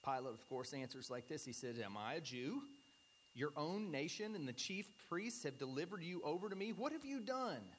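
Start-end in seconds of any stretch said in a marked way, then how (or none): 1.8-7.8 blustering. Retold or imitated. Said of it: "You can almost hear him blustering this out".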